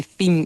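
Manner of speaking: "cim" with a Castilian th sound. Shown as a demonstration. Linguist admitting a licence to the host, "cim" with a Castilian th. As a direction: say "cim" starting with th, as in Castilian Spanish. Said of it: "pronunciando con una C más castellana".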